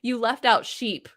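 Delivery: mock reply. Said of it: "reply to that comment and be like".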